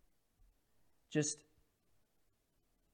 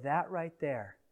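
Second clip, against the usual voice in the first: hushed declaration; 2 semitones lower, 6 dB quieter, slower than usual. Acted.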